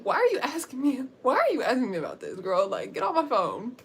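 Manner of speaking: retold irritated comeback; annoyed. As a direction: brush off a pestering caller. Acted irritated friend on phone.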